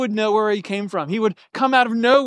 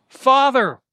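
cried out; 6 semitones higher, 4 dB louder than usual. Retold or imitated. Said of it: "proclaimed in a loud voice".

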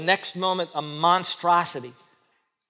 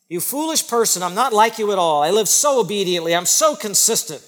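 louder, proud, self-righteous scolding; a hammed-up holier-than-thou rebuke; smug rebuke; 3 semitones higher, 6 dB louder than usual. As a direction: lord it over them. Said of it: "We don't say it quite that way, but that's how we sound".

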